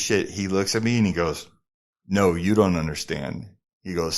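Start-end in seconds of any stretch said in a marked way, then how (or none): 2.1-3.5 calm retort. Retold or imitated. Driver tops the model's story, calm retort. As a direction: answer evenly, without raising the voice.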